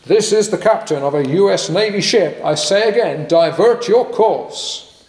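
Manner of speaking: insistent American navy captain; American accent. Acted. US captain repeating his order to Canadians, American accent. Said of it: "I'll do my best American accent".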